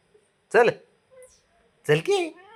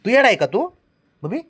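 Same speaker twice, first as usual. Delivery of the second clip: high teasing call; 11 semitones higher, 8 dB louder than usual. Real, not acted. Father teases the baby.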